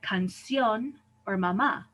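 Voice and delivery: "canción or mamá" stressed on the final syllables, -ción and -má; end-stressed "canción or mamá"; stress on last syllable. Shown as a demonstration. Teacher gives Spanish example words, "canción or mamá" stressed on the last syllable. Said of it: "stresses the last syllable".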